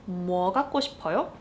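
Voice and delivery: fast Korean question; fast casual question. Shown as a demonstration. Teacher repeating the casual spoken form quickly. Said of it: "you might say".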